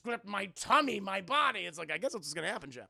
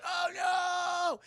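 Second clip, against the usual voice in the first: dramatic dismay; 10 semitones higher, 5 dB louder than usual. Real, not acted. Streamer reacting to the crash.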